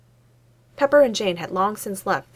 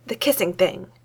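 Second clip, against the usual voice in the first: impatient. Acted. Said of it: "she said impatiently".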